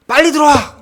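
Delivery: high, loud mock yell of a tough mom; imitated mother's yell. Tough mother on the phone yelling at her son, loud and high. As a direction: bark it like an angry mom calling her kid home. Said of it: "이렇게 막 소리를 이렇게 지르시더라고요".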